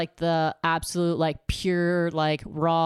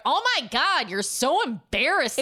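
cringing; 7 semitones higher than usual. Retold or imitated. Mocking her cringe reply.

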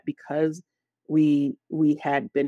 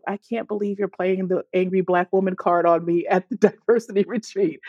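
laughing disbelief; 3 semitones higher than usual. Retold or imitated.

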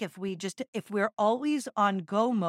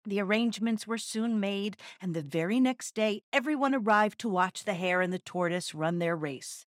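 story narration. A narrator's reading. Reads a fable aloud.

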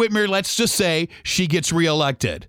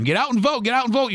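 higher, sing-song parroting of a slogan; mock slogan; 4 semitones higher, faster than usual. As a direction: parrot what everyone keeps saying. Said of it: "People say that all the time".

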